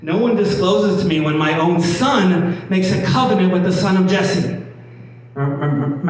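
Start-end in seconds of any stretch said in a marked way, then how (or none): 0.0-4.6 Saul's rant read while laughing; laughing through quote. Retold or imitated. Preacher laughing while voicing Saul's paranoid rant. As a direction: giggle through the paranoid king's words.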